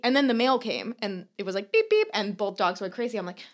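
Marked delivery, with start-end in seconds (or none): 1.7-2.1 high mock beep-beep noise, much higher than her voice; imitated beeping. Telling a friend about the mystery sound, high imitated beeping. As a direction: chirp it like a faint electronic beep. Mimicking the mail truck beeping.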